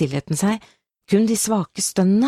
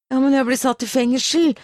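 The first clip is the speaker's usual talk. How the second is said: high, distressed wail; panicked protest; 8 semitones higher than usual. A narrator's reading. Shooter to his comrade about prison, panicked. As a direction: protest in rising panic, pitched well up.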